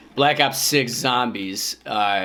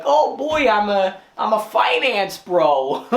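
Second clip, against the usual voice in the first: finance bro; 6 semitones higher, 3 dB louder, slower than usual. Pretend. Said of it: "I can just be like".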